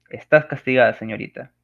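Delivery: loud, stern telling-off; stern scolding. Shown as a demonstration. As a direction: scold a daughter firmly. Example of scolding parent.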